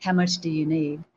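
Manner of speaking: low, gentle, tender question; quiet, caring retold voice; very loving. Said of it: "he very lovingly says".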